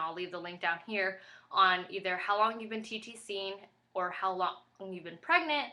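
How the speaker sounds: breathless, talking between breaths; winded, air running short. Real, not acted. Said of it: "I'm out of breath".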